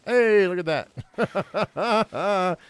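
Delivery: loud, high exclamation; excited find. Real, not acted. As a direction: burst out at a lucky find. Sudden lucky find in game.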